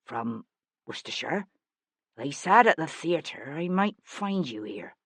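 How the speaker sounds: a timid country cousin; lightly voiced shy visitor; meek provincial. Meek disguised Sebastian questioning.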